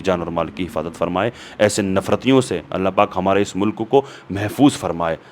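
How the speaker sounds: low, even supplication; closing prayer. Real, not acted. Speaker asks Allah for peace in Hindustan, praying.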